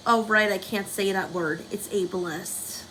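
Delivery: sarcastic. Real, not acted. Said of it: "I'm being sarcastic".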